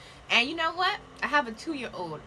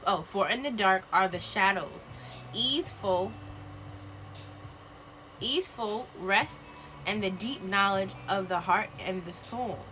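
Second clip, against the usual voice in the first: solemn card reading; slower than usual. Acted. Reads card slowly, solemn.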